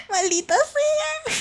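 very high, drawn-out wail of frustration; high-pitched cry at a tech failure; exasperated curse. Real, not acted. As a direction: squeal it slowly in exasperation. Curses a login that failed.

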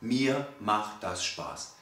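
a calm client saying healthy eating feels good, in a slow, soft voice; calm affirmation. Pretend. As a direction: say it slowly as if you mean it. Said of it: "kommen und sagen".

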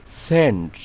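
সেন্ট opening on a plain s for SC; silent C. Shown as a demonstration. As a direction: say সেন্ট with no k after the s. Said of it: "সি এর উচ্চারণ হয়নি". (সেন্ট, সি অনুচ্চারিত)

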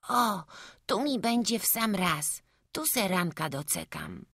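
lightly voiced small child, high at first; a hint of a boy's high voice, easing down; satisfied little boy. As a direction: settle in like a contented kid. Voices boy settling in tree.

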